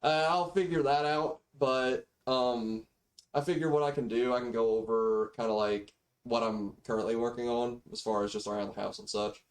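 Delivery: thin built-in microphone audio; cheap default mic. Real, not acted. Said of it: "sorry for the mic quality".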